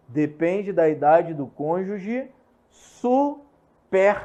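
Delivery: slow, with "superstite" split into separate syllables; deliberate slow syllabified reading. Shown as a demonstration. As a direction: spell out "superstite" slowly, su-pers-ti-te. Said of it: "Eu falei assim, é, separado silabicamente".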